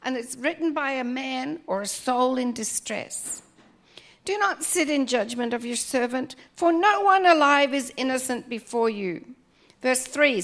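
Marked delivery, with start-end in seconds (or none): 4.2-9.4 scripture reading. Acted. Reads psalm aloud as prayer.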